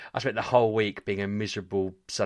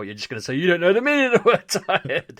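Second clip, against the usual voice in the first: higher, louder teasing imitation of the host; mock Kev voice; 10 semitones higher, 8 dB louder than usual. Imitating the host's taunt to a friend, higher and louder. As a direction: mimic the host's jibe with a laugh. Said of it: "and then I thought".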